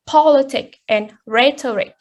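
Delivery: politic stressed on POL, rhetoric on RHET; POL-itic and RHET-oric, first syllables strongest. Shown as a demonstration. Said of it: "the stress falls on the first syllable".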